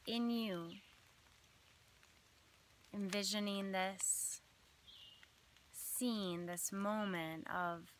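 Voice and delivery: measured meditation voice with long pauses between phrases; unhurried phrases, each left to settle; guided visualization. Acted. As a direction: lead listeners gently through an imagined scene.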